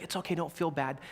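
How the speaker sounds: softened, voiced mock whisper; imitated whisper. Mother consoling her little daughter, mock whisper. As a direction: confide it softly as an imitated aside. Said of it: "she whispered to her little daughter".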